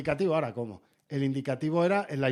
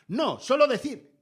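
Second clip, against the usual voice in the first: slow, louder and higher pompous "solo decir"; mock correspondent; 7 semitones higher, 4 dB louder, slower than usual. Mocking a TV correspondent who won't stop talking, slow and pompous. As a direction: drag out "No, solo decir" like a self-important reporter. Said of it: "Y dicen".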